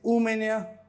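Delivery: slow, loud, drawn-out reading; slow demo. Shown as a demonstration. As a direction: say it slowly and clearly for students. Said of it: "तो क्या बोलेंगे?".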